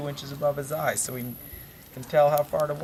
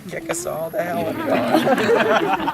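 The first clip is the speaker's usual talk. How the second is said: Pa's panicked yell; 4 semitones higher than usual. Acted. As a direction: cry out orders in mock alarm. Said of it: "and yelled".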